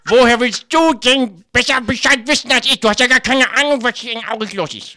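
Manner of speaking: indignant. Acted. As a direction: scold her, outraged. Acted quarrel between women.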